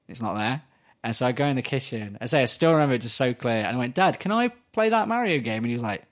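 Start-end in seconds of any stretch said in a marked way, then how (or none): 3.9-5.6 put-on eager child. Child asks dad to play.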